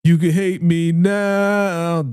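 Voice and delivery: mock villain line, drawn out slow; imitating Kanan, slow and taunting; slow Kanan imitation. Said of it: "That's what he said".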